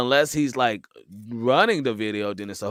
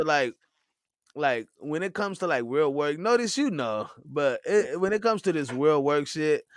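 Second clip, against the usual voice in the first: high imitating voice; 6 semitones higher than usual. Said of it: "he said".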